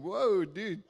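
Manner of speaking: slow, laughing inner plea; amused thought, half laughing; amused aside. Retold or imitated. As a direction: laugh it out slowly. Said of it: "And I'm thinking".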